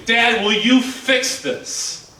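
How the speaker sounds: put-on slow, teary little girl asking dad; tearful plea. Daughter holding out broken toy to dad, slow tearful plea. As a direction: imitate a four-year-old pleading through tears. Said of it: "with tears".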